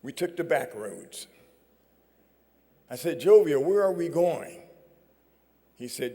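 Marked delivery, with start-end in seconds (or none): 3.2-4.7 anxious question. Retold or imitated. Anxious question on back roads.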